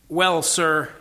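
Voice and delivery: mildly slowed, hesitant cabbie. Acted. Cabbie weighing Aslan's question about war, slightly slow. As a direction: start your answer slowly, a little hesitant. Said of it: "said the cabbie very slowly".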